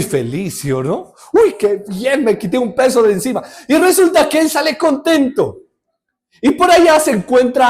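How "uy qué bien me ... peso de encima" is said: relieved laugh. Retold or imitated. Debtor relieved after being forgiven.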